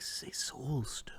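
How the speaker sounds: secretive, hushed whisper, close and quiet. Voicing a character telling another a secret in his ear: whispering in someone's ear. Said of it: "and he whispers into".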